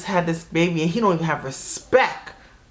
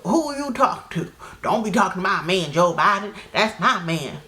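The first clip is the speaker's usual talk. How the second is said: put-on jealous girlfriend; 2 semitones higher than usual. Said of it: "And they".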